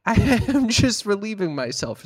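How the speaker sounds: lightly voiced mocking scene; mock dialogue. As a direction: play both sides of a silly exchange. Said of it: "and you said".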